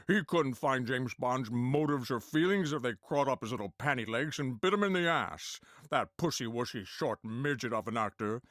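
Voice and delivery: lightly voiced, foul-mouthed Sean Connery; a hint of grumpy Connery, swearing; Sean Connery impression. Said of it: "British actor Sean Connery".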